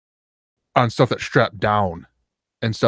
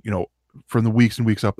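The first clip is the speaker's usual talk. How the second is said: normal talking voice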